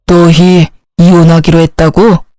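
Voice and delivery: put-on low, stern old man asking; a hint of a displeased father-in-law. Father-in-law questioning the daughter-in-law about the divorce, low and stern.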